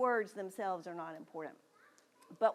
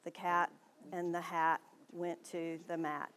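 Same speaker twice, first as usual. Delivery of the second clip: flat reading; 4 semitones lower, 4 dB quieter than usual. Shown as a demonstration. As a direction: read "The Cat and the Hat Went to the Mat" in a flat monotone. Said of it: "doesn't read a book like this".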